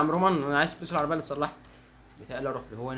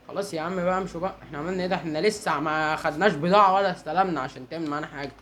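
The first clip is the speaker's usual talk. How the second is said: exasperated protest; 3 semitones higher, 7 dB louder than usual. Real, not acted. Player telling pursuers he took no goods, exasperated protest. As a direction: protest your innocence to the pursuers.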